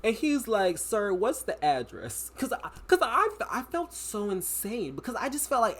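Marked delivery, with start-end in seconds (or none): 0.8-2.3 slow dispatcher. Retold or imitated. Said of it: "He's talking so slow".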